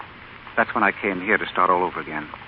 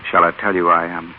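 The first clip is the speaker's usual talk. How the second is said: much softer and lower, close; intimate; 4 semitones lower, 3 dB quieter than usual. Acted. Stephen asking Stella for another kiss, soft and intimate. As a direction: coax her gently toward a kiss. Romantic proposal moment.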